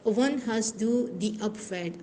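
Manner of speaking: slow, careful German question; deliberate German demo question; slow model question. Shown as a demonstration. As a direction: ask it slowly for learners.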